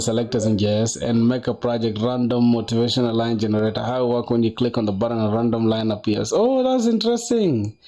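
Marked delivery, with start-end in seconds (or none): 6.3-7.8 jumps up high, a bright oh of surprise; surprised. Real, not acted. Reacting to a viewer's project, surprised. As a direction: sound genuinely struck by the news.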